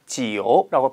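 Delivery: 지오 with a light o glide, not 지우; with o sound. Shown as a demonstration. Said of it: "지우라고 발음하는 것이 아니라".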